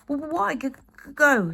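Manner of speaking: high, stammering little dragon voice; shuddering. Acted. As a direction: stutter it out, trembling with fear. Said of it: "shuddered Toothless".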